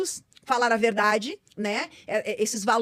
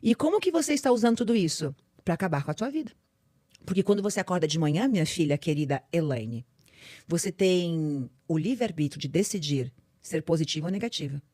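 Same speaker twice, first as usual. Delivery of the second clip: lower, patient voice of God; lightly voiced God answering her; God speaking; 5 semitones lower than usual. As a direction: explain it like a loving father. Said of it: "É como se ele me falasse".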